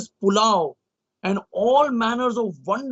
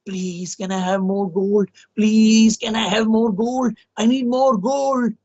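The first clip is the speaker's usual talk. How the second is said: praying king; 2 semitones higher, slower than usual. Acted. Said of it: "He keeps praying all the time in his mind".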